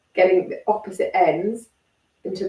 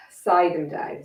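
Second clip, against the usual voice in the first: demo sigh; 3 semitones lower, slower than usual. Shown as a demonstration. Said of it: "So exaggerate that sigh down".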